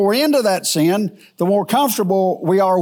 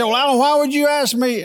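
puzzled congregant; 7 semitones higher than usual. Retold or imitated. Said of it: "You say".

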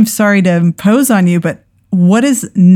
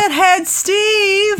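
shocked cry; 12 semitones higher, 4 dB quieter, much slower than usual. Real, not acted. Player finds informant's body.

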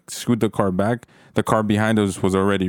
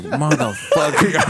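pissed; 7 semitones higher, slower than usual. Retold or imitated. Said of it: "I was so pissed".

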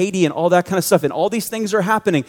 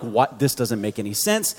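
muttered confusion; 6 semitones lower, 6 dB quieter than usual. Retold or imitated. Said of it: "I'm getting mad".

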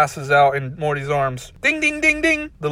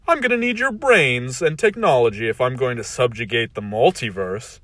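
cold rasping evil emperor; 4 dB louder than usual. Acted. Villain reassures cruelly.

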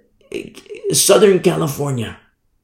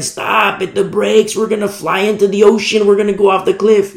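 higher, urgent pretend shout of warning; mild mock yell; mock scream; 4 semitones higher than usual. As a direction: act out a panicked warning without real volume. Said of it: "I scream as loud as I can".

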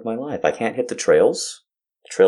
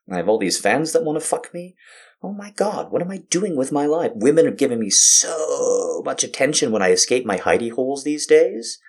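mock complaining; 4 semitones higher than usual. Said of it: "I was complaining to a friend, like".

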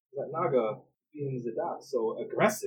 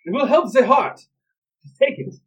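gentle healer; 12 semitones higher, 11 dB louder than usual. Acted. NPC hands over vial.

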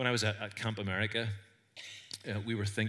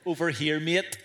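loud, higher Northern Irish shout of a name; Northern Irish call; 5 semitones higher, 6 dB louder than usual. Retold or imitated. Camp counselor calls his camper across a huge field, loud Northern Irish accent. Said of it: "because I had a Northern Irish accent".

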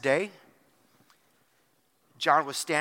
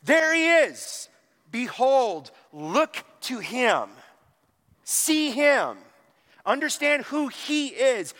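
loud, high-pitched calling out, each phrase driven home; shouted proclamation; 5 semitones higher, 5 dB louder, slower than usual. Retold or imitated. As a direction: call out high and loud, slow and emphatic. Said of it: "shouted out again".

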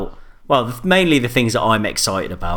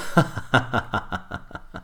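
evil chuckle; 6 dB quieter than usual. Pretend. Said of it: "that was my bad guy laugh as well".

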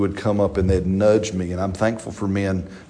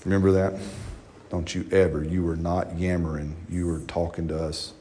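loving rebuke; 4 semitones lower, 8 dB quieter than usual. Retold or imitated. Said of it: "he got me lovingly up and said".

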